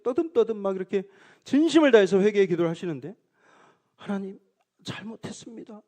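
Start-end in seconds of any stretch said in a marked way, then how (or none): 4.0-5.8 lightly voiced, soft and higher, like a humble child; a hint of a child's pure pleading; childlike prayer. Deacon repenting to God, lightly mimicked as a childlike plea. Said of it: "굉장히 어린아이처럼 순수한 마음으로".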